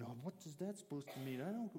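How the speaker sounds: a lightly voiced, excited disciple talking over the news; quick, worked-up mock argument; playful imitation of an agitated friend; animated. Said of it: "probably pretty animated".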